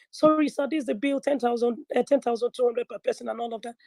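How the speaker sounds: a hint of a deferential waitress voice.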